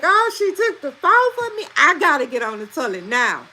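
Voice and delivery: high-pitched mock wail easing off; imitated crying child. Mom mimics son who lost the phone, high mock crying. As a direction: mimic a kid's upset complaint, without real tears. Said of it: "he was just crying like".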